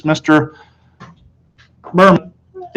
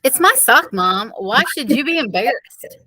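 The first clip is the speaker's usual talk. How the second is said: put-on higher, soft puzzled boy; boy's voice; 10 semitones higher, 5 dB quieter than usual. A narrator's reading. Peter protesting to his mother, lightly voiced boy. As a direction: ask it with innocent protest. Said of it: "I asked".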